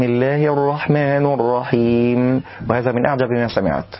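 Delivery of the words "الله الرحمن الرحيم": الرحمن with u on the n; rounded nun. Shown as a demonstration. Teacher imitates an odd mistake. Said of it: "من يضم ويقول".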